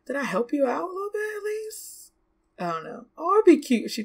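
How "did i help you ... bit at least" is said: put-on high, hopeful child question; higher little sister voice; eager kid voice. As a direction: ask like a kid wanting praise. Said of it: "I feel like she's gonna, like".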